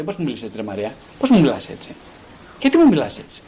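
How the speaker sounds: a touch of mock outrage; mock indignant. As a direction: mimic someone offended at Maria. Acted complaint to Maria.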